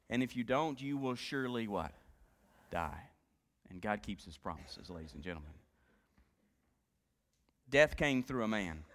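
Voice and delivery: soft, low, solemn preaching; hushed sermon. Acted. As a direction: bring the room in close and grave. Quiet reflective stretch of sermon.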